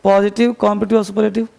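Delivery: quick recap. Shown as a demonstration. Teacher reminding students of the headings, fast. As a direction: rattle the three terms off fast. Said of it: "तीन list लिखो पूरे page पर".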